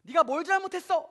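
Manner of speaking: acted cross parent questioning; parent's scolding. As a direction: confront a child over a misdeed. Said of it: "라고 혼냅니다".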